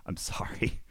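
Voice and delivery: a quick breathy whispered apology; whispered sorry. Real, not acted. Streamer apologizes to Hammer in a whisper.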